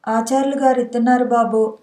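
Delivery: plain reading voice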